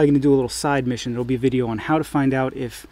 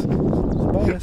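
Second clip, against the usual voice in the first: whispered echo; 2 semitones higher than usual. Pretend. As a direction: whisper it back. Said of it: "Bonus features".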